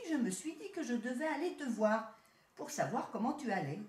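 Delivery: a touch of the proud town cousin; city rat. Acted. City rat greeting his country cousin, lightly voiced.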